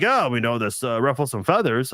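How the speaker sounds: half-hearted attempt at a London accent; failed London accent. London fans reacting to stadium talk, weak London accent. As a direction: try a London accent and barely get there. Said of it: "I can't do a London accent".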